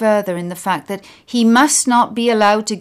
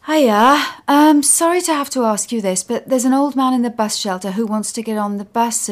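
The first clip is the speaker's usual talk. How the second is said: awkward polite request; 4 semitones higher, 4 dB louder, faster than usual. Acted.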